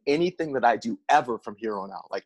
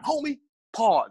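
high excited call-out; 11 semitones higher, slower than usual. Real, not acted. Podcast host mocks the fighter, high and laughing. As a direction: pitch shoots up, laughing disbelief.

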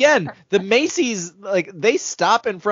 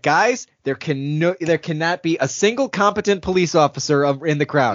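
mock-firm director laying down rules; putting foot down. Director refusing competent cops in crowd, firm mock ultimatum. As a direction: lay it down firmly, in mock earnest. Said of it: "really put his foot down".

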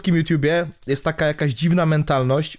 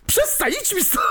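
laughing. Real, not acted. Laughing fit, shooing co-host away.

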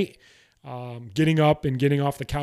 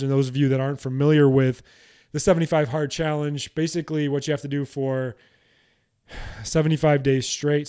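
short of breath. Real, not acted. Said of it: "Sorry, I'm still short of breath".

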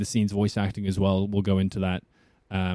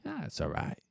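understated, softer Northern English accent; Yorkshire accent; 2 semitones higher, 8 dB quieter than usual. Shown as a demonstration. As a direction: hesitate modestly in a Yorkshire accent. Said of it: "kind of a generalized Yorkshire".

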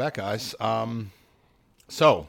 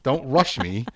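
excited laughing protest; 7 semitones higher, 8 dB louder than usual. Real, not acted.

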